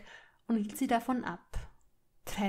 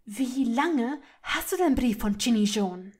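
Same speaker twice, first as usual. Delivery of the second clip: louder, controlled fury, word by word; trembling with anger; 5 dB louder than usual. A narrator's reading. Hermine repeating her demand to Malfoy, trembling with anger. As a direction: press the question through mounting rage. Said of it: "Hermines Stimme bebte vor Wut".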